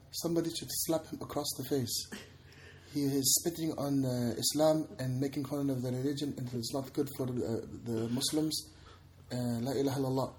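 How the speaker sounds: a hint of a scolding woman; offended woman commenter. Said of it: "it's a woman".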